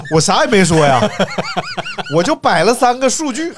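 laughing through the words; can't stop giggling while telling it; real amused laughter mid-sentence. Real, not acted. Laughing while retelling the troll comments.

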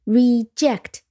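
Reject, stress on ject; stress on second syllable. Shown as a demonstration. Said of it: "重音在第二音节". (Reject，重音在第二音节ject)

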